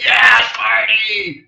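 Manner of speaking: high, slow mock shout; party shout. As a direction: yell it like the reckless partier. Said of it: "He's like".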